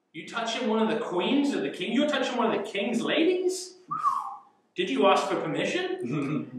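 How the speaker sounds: high, incredulous questioning; mock scolding. Preacher challenging Haman over touching the king's ladies, mock scolding. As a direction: grill him in disbelief.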